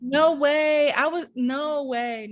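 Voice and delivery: real high-pitched disbelief; stunned, slowing as it sinks in; freaking out. Real, not acted. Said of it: "I'm freaking out right now".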